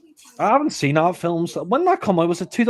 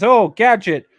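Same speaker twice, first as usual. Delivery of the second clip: retold film line; 7 semitones higher, 7 dB louder than usual. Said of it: "He says".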